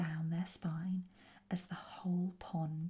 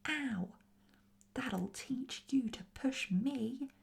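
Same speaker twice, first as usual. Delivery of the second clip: higher, half-restrained indignant yell; 6 semitones higher than usual. A narrator's reading. Shoved goblin retaliates, yelling mildly. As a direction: yell it like a squabbling goblin, held back. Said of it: "yelled the other one".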